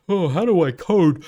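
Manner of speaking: mock confused coder. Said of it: "mocking his past self".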